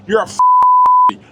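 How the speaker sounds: high, slow, mocking squeal. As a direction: stretch it out in a sneering falsetto. Mocking insult in rant.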